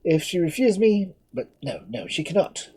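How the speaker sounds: high, loud, raging defiance; a prisoner raving against his fate; maddened outburst. Acted. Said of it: "driven to madness by the thought".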